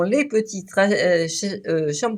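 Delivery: tripping over the word's start; stammering. Real, not acted. Presenter blaming the champagne for it, stammering. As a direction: stumble through false starts and fillers. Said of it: "je bégaye un peu".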